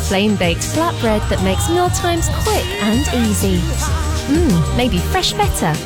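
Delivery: ordinary delivery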